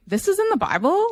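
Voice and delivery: retold scandalized surprise; shocked disbelief. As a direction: gasp it out in amazement. Retold shock while reading.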